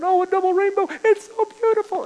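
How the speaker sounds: very high, choked-up squeal of awe; imitating high teary voice. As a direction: mimic a man overcome by a double rainbow, voice cracking high. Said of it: "And his voice gets real high, and he starts to cry".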